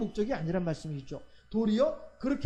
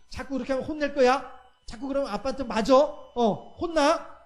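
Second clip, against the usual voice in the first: put-on a touch of a stern dad scolding his kids; mock threat with a raised stick; father warning his children, mildly stern; 4 dB louder than usual. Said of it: "무서운 얼굴로 하고 ... 무섭게".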